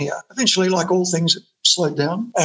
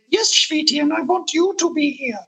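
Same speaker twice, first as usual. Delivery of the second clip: put-on much higher, gushing Zsa Zsa Gabor-style accent; 10 semitones higher than usual. Label boss inviting the drummer to her party, in an imitated Zsa Zsa Gabor-style accent. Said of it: "She said".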